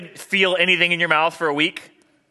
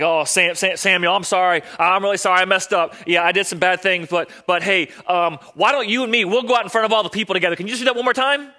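higher, louder wheedling excuse; Saul's apology; 5 semitones higher, 5 dB louder than usual. Acted. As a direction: plead your way out of trouble, pitched high. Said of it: "he's like".

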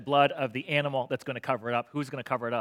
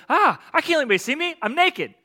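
put-on high, loud little-kid voice; toddler panicking; 12 semitones higher, 8 dB louder than usual. Pastor voicing toddler Johnny hiding, high mock panic. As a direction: play a one-year-old in mock panic. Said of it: "little Johnny at one years old goes".

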